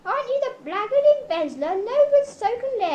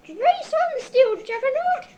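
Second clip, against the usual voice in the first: exultant cry; 4 dB louder, slower than usual. Acted. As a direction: call it out over the engine, thrilled. Exulting in the vehicle's speed.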